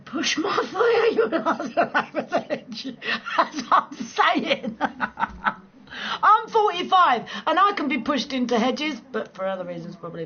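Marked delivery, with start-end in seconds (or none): 0.0-4.8 high, slow words through laughter; laughing. Real, not acted. Reading a viewer's comment, laughing high and slow. 6.2-9.0 mock indignant. Real, not acted. Mock outrage.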